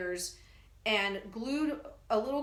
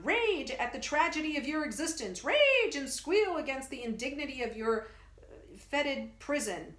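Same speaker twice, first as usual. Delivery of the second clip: higher, grand declaiming; theatrical bellow; 4 semitones higher than usual. Acted. Professor rousing the creature before the crowd, hammed-up bellow. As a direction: thunder it for the crowd. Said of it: "the professor bellows".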